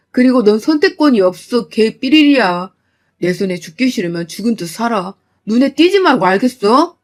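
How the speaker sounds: father banishing the son-in-law; furious father. Acted. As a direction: cut him off for good.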